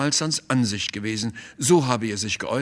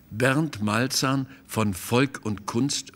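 slow, disbelieving question rising at the end; drawn out in disbelief, each word weighed; incredulous; slower than usual. Acted. Busbeck asking the painter's visitor, slow and incredulous. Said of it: "fragte Theo Busbeck ungläubig".

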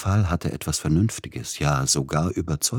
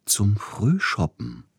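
gentle; 7 semitones higher, slower than usual. Acted. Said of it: "sagte Siegfried Neugebauer sanft".

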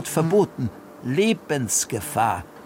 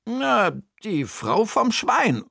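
higher, lively aunt puzzling; raised character voice solving a riddle; Bertha's voice; 6 semitones higher than usual. Acted.

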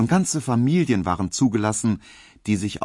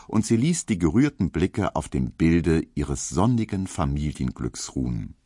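plain reading voice

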